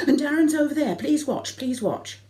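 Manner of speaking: high, loud call across the water. Retold or imitated. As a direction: shout it out to him over the sea. Calling to husband in sea.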